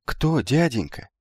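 put-on high, slow, timid young voice; timid question. A narrator's reading. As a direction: ask shyly, drawing it out. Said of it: "робко поинтересовался сидевший рядом с телемом юноша".

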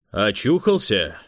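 slow, drawn-out call from another room. A narrator's reading. Unseen guest to Швед waking up, calling out. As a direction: call over to someone waking up.

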